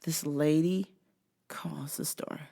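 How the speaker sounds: hushed whisper; conspiratorial whisper. Real, not acted. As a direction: lean in and whisper it. Whispered aside.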